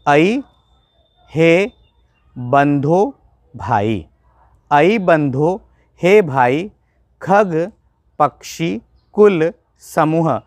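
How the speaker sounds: slow, measured reading of the verse with pauses between phrases; slow recitation. Shown as a demonstration. Teacher reading the verse slowly to students, slow and measured. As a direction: read the Sanskrit line out slowly, word by word. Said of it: "धीरे धीरे बोलूँगा मैं".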